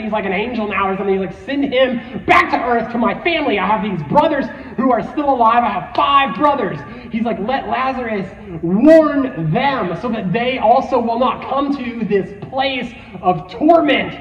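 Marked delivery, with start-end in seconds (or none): 1.5-6.8 mildly acted plea, pitched up a little; urgent retold begging. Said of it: "and he's begging". 7.4-14.1 slow, emphatic acted plea; mild retold begging. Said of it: "and he's begging".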